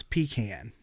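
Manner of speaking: "pecan" with a long PEE and the vowel of "can"; Northern pecan. Retold or imitated. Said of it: "No, it's not".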